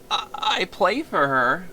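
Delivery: slow, dreamy stammer; tender confession. Acted. Violinist confessing his love, slow and tender. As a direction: linger over "play" with a long rising "I, I play for her".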